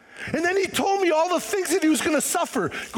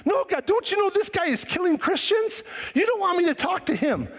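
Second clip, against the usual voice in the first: arguing Ananias; 6 semitones higher than usual. Retold or imitated. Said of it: "He starts arguing".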